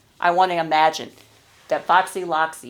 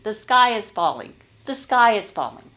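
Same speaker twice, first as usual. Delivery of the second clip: a frantic bird shouting, louder and higher; panicked shouting; 4 semitones higher, 5 dB louder than usual. Acted. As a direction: yell the alarm while running.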